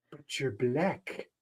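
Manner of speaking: put-on slow, soft South African accent. Retelling a consulate scene in a film, South African accent. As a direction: imitate a South African official, drawn out and quiet. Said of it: "It'll be in the South African accent".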